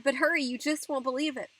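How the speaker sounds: urgent shout. A narrator's reading. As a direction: shout to hurry someone along. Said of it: "I shouted".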